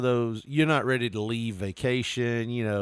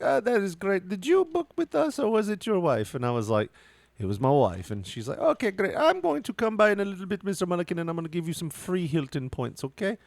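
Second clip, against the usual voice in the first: much higher, sing-song customer-service voice; chirpy hotel manager; 7 semitones higher than usual. Retold or imitated. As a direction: imitate a sugary sales manager greeting a guest. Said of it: "That's the way she talked".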